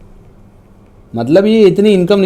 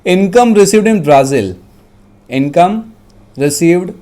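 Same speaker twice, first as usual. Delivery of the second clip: measured dictation with pauses; dictating. Real, not acted. Teacher dictating a question to students, dictation voice. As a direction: dictate phrase by phrase. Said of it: "मैं dictate कर रहा हूँ".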